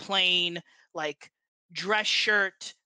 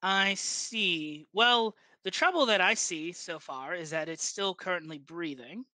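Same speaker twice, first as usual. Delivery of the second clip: Armentine Ward. Acted. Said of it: "a very heavy Ondarian accent".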